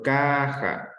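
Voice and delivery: CAja, "ca" long and lifted; stressed first syllable. Shown as a demonstration. Teacher giving the class another example, "Caja" stressed on "ca".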